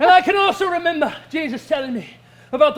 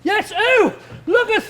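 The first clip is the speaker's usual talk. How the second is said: excited; 5 semitones higher than usual. Acted. Acting a character on fire.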